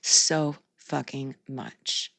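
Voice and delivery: slow, soft deadpan sarcasm; sarcastic. Real, not acted. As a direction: drag it out, dripping irony. Sarcastic reply to miss her.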